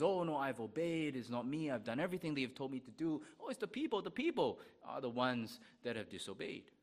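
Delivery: mock brazen Saul, breezy denial; a brazen king dodging the prophet; brazen excuse. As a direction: play Saul shrugging off blame. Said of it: "very brazenly says".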